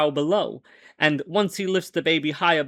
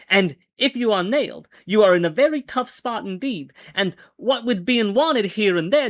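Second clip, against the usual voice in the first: earnest plea, pitched higher; earnestly; 5 semitones higher than usual. Acted. Narrator earnestly warns Jewel about the coppers. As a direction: urge him sincerely not to draw. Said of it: "very earnestly".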